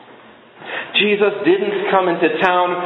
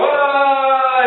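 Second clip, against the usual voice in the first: 1 demo shout; 9 semitones higher than usual. Shown as a demonstration. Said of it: "You're shouting out".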